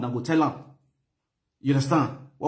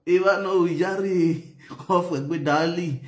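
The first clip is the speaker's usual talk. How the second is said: playful woman's protest, a bit higher; woman's mock protest; 3 semitones higher, slower than usual. Retelling a woman's coy protest in bed. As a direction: voice her coy objection. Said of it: "the woman is saying".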